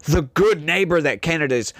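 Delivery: dry sarcastic praise of Canada. Acted. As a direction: say it with mock admiration. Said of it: "I don't know if you could tell the sarcasm in my voice".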